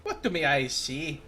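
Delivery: rough go at an Irish accent; Irish bloke. Shown as a demonstration. Streamer showing a viewer what Irish sounds like, Irish bloke accent. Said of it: "That's more like an Irish bloke".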